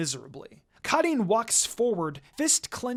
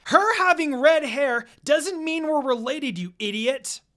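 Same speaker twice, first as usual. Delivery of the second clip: higher, louder angry retort; angry shout; 7 semitones higher, 7 dB louder than usual. Acted. Karin yells at Suigetsu that they are not related, angrily. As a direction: snap back at him, furious.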